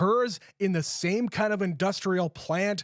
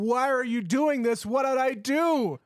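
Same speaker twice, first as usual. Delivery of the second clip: mock scream; 5 semitones higher than usual. Retelling the victim's plea to her attacker, mild mock scream. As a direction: imitate a screaming victim without really screaming. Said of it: "she starts screaming at him".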